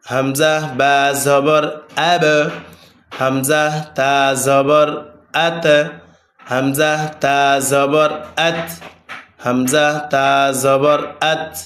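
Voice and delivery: slow, even spelling chant; repeat-after-me drill. Shown as a demonstration. Teacher leading students to repeat, slow spelling chant. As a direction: spell each syllable for students to echo. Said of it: "যেমন আমার সাথে বলেন".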